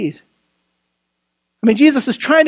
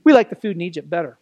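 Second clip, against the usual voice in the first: low, quickly muttered mock complaint; mock grumbling; 4 semitones lower, faster than usual. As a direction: lightly imitate a grumbler pining for old meals. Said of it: "They grumble".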